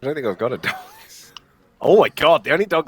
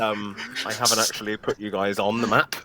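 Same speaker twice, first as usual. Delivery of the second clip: ordinary talk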